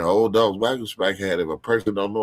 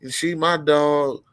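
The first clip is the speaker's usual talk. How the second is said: higher, lightly voiced wife laying down the rules; a hint of a firm wife, higher pitched; Walt's wife; 6 semitones higher than usual. Walt's wife telling Mike not to fight her dog, in a higher voice. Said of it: "His wife was like".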